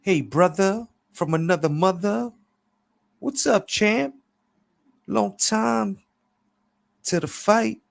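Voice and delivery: high, loud hype-man greeting; excited high-pitched character voice; Clever. A narrator's reading. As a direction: hail an old buddy in a high, drawn-up voice. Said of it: "Clever told Pops".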